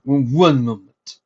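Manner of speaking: loud, slow call through a door. Acted.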